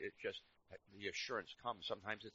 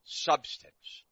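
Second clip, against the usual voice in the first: loud, slow, drawn-out proclamation; slow pulpit shout; booming preach; 4 semitones higher, 14 dB louder, much slower than usual. Real, not acted. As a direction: bellow it out to the congregation.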